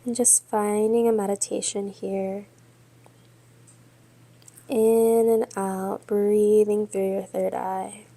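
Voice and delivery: measured yoga-teacher cueing with long pauses; guided yoga meditation. Real, not acted. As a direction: guide them steadily through breath and pose, leaving space between phrases. Leads yoga and breathing meditation.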